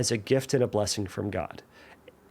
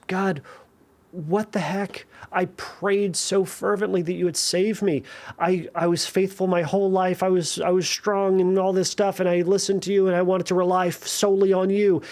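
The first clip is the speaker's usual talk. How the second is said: indignant complaint; 5 semitones higher than usual. Retold or imitated. Drowned man complains to God.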